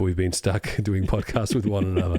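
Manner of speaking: low, slow captain's log voice; mock captain's log. Host recaps the podcast as a mock captain's log. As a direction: dictate it slowly like a ship captain.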